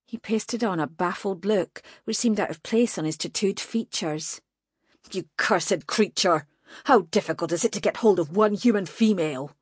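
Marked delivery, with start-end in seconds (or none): 5.1-9.6 angry scolding. Acted. Mage berates demon.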